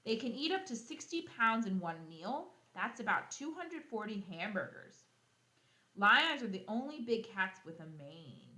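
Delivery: bright, lively read-aloud voice; storybook reading for kids; reading to children. Acted. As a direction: read the book out to the class with energy. Reading the lion book aloud.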